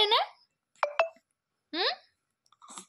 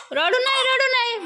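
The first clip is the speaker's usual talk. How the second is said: high soothing coo; 12 semitones higher, 3 dB louder than usual. Real, not acted. Mother hushes her crying baby, high soothing coo.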